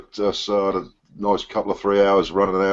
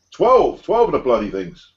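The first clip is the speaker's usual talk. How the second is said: high, disbelieving echo; can't believe the number; incredulous; 4 semitones higher than usual. Retold or imitated. Incredulous at twelve cakes.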